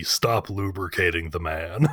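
a hint of Bumblebee's slow, low robot line; lightly voiced slow robot delivery. Quoting Bumblebee's line to the hosts, slow and lightly voiced. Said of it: "the voice line delivery of Bumblebee".

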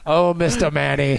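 slow, drawn-out playful come-on; mock seductive role. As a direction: address him with hammed-up relish. Joking in a put-on character voice.

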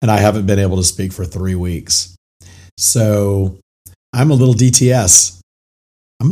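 hoarse, raspy, barely-there voice; lost voice. Real, not acted. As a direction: talk through a voice that's nearly gone. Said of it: "I have no voice".

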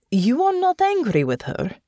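high, drawn-up questioning; surprised question. Acted. Natasha checks Honor's feelings about her mother, surprised. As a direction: ask it with pitch climbing, disbelieving.

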